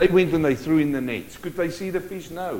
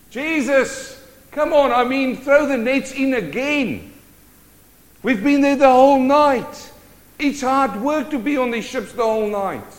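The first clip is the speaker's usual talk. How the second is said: loud, high complaint of a worn-out fisherman; exasperated protest; 6 semitones higher, 7 dB louder than usual. Acted. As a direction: protest loudly, sinking on each "nothing". Acts out the weary fishermen protesting.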